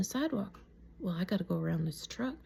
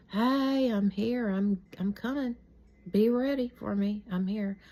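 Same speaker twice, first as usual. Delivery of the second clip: higher, louder mock kid's holler; excited calling out; 3 semitones higher, 4 dB louder, slower than usual. Girl waltzing down the street to her friends, excited calling out. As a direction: call ahead proudly, play-acting your younger self. Child proudly announcing arrival to friends.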